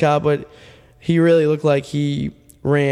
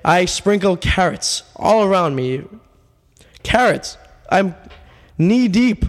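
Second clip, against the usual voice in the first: mock-grand explanation; 3 semitones higher than usual. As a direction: describe the carrot ritual with mock solemnity. Absurd overdramatic carrot explanation.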